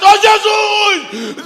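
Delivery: berro agudo, vogais bem esticadas; grito mais alto. Shown as a demonstration. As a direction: berre com toda a força, arrastado. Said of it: "Gritar mais alto". (grito altíssimo e prolongado)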